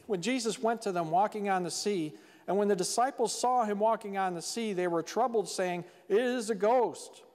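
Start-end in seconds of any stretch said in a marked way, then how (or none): 6.1-7.2 slow, higher, mildly alarmed reading; fearful cry. Acted. Disciples seeing a figure on the sea, mildly fearful cry. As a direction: read the cry with a touch of fear. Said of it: "they cried out with fear".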